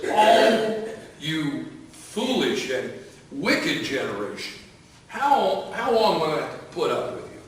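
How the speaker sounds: a hammed-up sigh of exasperation at the crowd; frustrated rebuke. Jesus scolding the faithless generation, hammed-up frustration. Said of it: "becomes highly frustrated and says".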